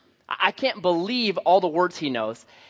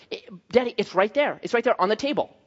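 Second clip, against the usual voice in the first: lightly imitated little kid insisting; a hint of an insistent small child; toddler son; 4 semitones higher than usual. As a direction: pitch it a bit higher, like an eager two-year-old. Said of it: "This is how he talks to me now".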